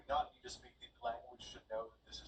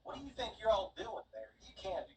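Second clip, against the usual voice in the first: mock Austrian, higher and louder; mock Austrian scold; 10 semitones higher, 5 dB louder than usual. Handmaid reading the riot act, mock Austrian scolding. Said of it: "the German equivalent of".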